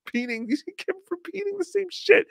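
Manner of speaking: laughing through the words. Real, not acted. Laughing while mocking.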